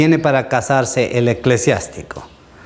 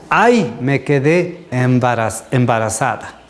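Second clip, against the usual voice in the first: dismayed woman. Retold or imitated. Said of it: "Esto es lo que dicen tantas personas".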